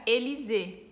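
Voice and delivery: "Élysée" with closed E at both ends; French pronunciation. Shown as a demonstration. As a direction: say "Élysée" as "e-li-ze", stress last. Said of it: "que fica o som de E". ("Élysée" à francesa, com E fechado)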